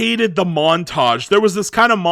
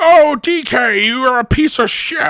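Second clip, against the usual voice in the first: put-on grouchy, grumbling old man voice; 6 semitones higher, 4 dB louder than usual. Speaker shows how they imagine Cranky Kong sounds: Cranky Kong as cranky old person. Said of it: "some cranky old elderly person".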